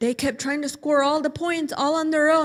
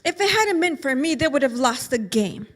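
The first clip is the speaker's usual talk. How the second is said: put-on proud boy, higher and louder; bragging; 3 semitones higher, 3 dB louder than usual. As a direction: puff himself up. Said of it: "He said".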